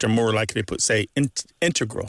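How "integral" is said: "integral" hit hard on IN; stress on first syllable. Shown as a demonstration. Linguist explaining to caller, stress on IN. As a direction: say "integral" as IN-tegral. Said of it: "stress on the first syllable".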